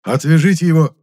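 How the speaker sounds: head of town ordering his men, loudly; exclaimed order. A narrator's reading. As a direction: order them at once. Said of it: "воскликнул глава".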